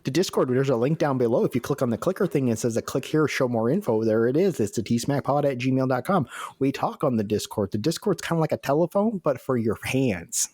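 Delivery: hammed-up, badly faked British accent; mock British accent. Co-host plugging the Discord to listeners in mock British accent. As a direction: keep up a silly British accent. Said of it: "two guys with accents just like ours".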